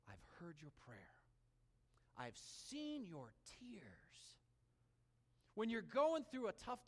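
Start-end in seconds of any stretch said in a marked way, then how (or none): 0.1-4.4 soft, very slow hushed comfort; tender whisper. Acted. God answering weeping Hezekiah, soft slow whisper. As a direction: whisper it gently, like consoling someone in tears.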